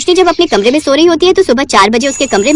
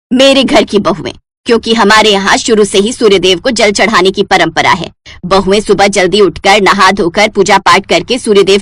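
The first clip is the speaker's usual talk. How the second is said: lecturing mother-in-law; 5 semitones lower than usual. Acted.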